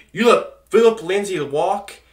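loud, high, laughing in disbelief; disbelieving laugh. Real, not acted. Angry fan laughing at the front office, loud and disbelieving. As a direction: laugh it out, outraged and incredulous.

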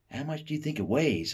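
put-on lady in the crowd asking the boy; curious lady. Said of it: "the lady asked".

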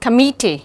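"committee" stressed on MIT, the second syllable. Shown as a demonstration. Teacher reading test words for students, stress on second syllable. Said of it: "nhấn ở âm thứ nhì".

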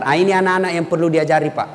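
ordinary talk

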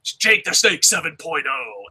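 lightly imitating an excited fan; Wrestling Ranton. Host imagining another fan's answer on Bray Wyatt, hyped-up imitation. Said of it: "he'll be like".

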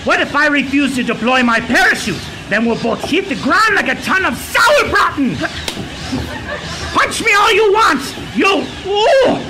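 shouted hammy German villain; cartoon German villain. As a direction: bluster in the fall. Villain in freefall.

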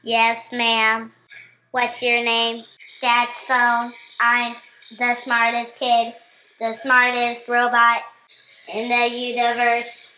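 put-on child's playful robot voice. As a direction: kid pretending to be a robot. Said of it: "she sounds exactly like a robot".

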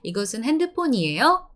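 핸드폰이에요 dipping slightly, then up at the end; dip then rise. Shown as a demonstration. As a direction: drop a little, then lift the end of 핸드폰이에요. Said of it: "go down a little bit and then up in the end".

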